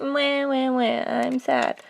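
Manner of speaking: softly whimpering mock cry; a hint of a sulking boy; whiny Luke. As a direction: play him as a whiny crybaby. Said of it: "I make him so whiny".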